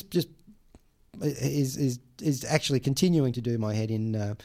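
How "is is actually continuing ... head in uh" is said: normal talking voice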